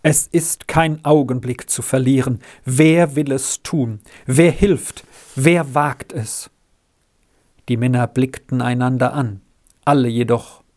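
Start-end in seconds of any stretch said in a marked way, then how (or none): 0.0-6.5 trembling voice. Acted. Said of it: "mit bebender Stimme".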